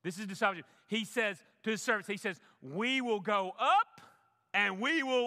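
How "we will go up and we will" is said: slow, lifted quote of Abraham; faith-filled declaration. Acted. Preacher quoting Abraham to congregation, slow and lifted. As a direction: savor each word of the promise.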